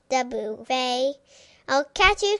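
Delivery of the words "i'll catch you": high, loud chasing call; cried out. Acted. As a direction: cry out as you run after the dog. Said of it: "cried Neelie".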